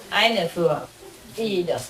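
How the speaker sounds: ordinary talk, nothing marked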